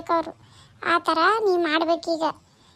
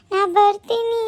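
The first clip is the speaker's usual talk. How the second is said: higher, louder tearful threat; quoting her own outburst, raised and upset; 4 semitones higher, 5 dB louder, slower than usual. Retold or imitated. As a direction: fling it out like a threat. Retells her own angry outburst.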